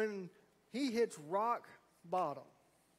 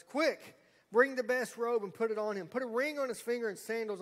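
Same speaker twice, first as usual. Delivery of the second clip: louder, higher urgent father calling to servants; joyful command; 4 semitones higher, 6 dB louder than usual. Acted. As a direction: call out eagerly like a father overjoyed.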